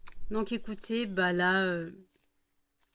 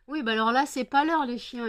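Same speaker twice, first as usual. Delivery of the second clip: scolding dogs; 4 semitones higher, 5 dB louder than usual. Real, not acted.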